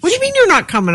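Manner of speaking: high-pitched retold indignation; imitated annoyance. Sister to the one skipping trick-or-treating, imitated annoyance. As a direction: mimic an annoyed sister's protest. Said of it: "she was annoyed with it".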